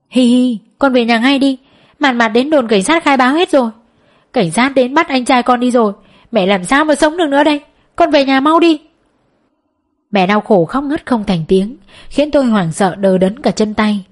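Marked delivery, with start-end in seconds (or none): 0.1-8.8 sobbing pleas that climb to a cry; wailing, crying. Acted. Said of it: "Mẹ đang gào khóc thảm thiết qua điện thoại".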